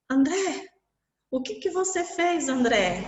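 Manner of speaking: put-on a boy calling to his brother in wonder; amazed boy. Boy amazed his brother is there, high and excited.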